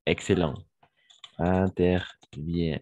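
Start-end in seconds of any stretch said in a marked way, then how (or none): 1.4-2.8 "Interviennent" slowly, ending on the n sound, -ent silent; slow model of "Interviennent" with mute -ent. Shown as a demonstration. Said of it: "E N T à la fin, on ne prononce jamais". (« Interviennent » lentement, -ent final muet)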